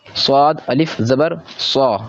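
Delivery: स्वाद अलिफ ज़बर सौ spelled out slowly, letter by letter; slow spelling out. Shown as a demonstration. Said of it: "जिस तरीके से मैं पढ़ रहा हूँ". (धीरे-धीरे हिज्जे करके)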